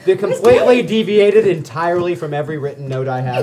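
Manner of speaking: loud, laughing TV host sign-off; show host voice. Acted. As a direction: announce it like a game show host.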